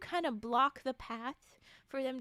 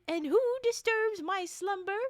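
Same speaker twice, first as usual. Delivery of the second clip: grand awakened spirit; 6 semitones higher, 5 dB louder than usual. Acted. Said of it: "you say".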